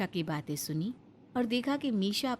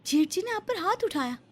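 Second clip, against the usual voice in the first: shocked; 9 semitones higher, 3 dB louder than usual. Acted. Shocked exchange over the beating.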